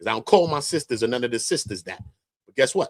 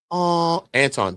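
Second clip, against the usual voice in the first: imitating sweet voice; 5 semitones higher, slower than usual. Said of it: "this is Anton voice".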